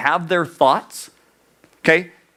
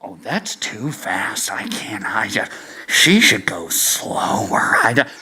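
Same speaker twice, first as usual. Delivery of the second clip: fussy judge; 9 semitones lower, 4 dB quieter than usual. Acted. Judge complaining that the alphabet is too fast, whispering. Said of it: "judge number one and judge number three over here are like".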